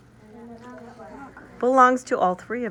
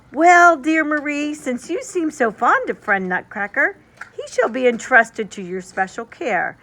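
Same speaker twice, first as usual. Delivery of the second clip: fond father; 2 semitones higher, 4 dB louder than usual. Acted. Father entrusts Nutcracker to Marie, fond voice. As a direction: soothe her like a fond father.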